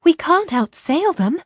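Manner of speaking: high, loud, drawn-out warning; urgent warning. A narrator's reading. Ishrak warns companions as the galley closes, urgent warning. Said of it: "Ishrak warned".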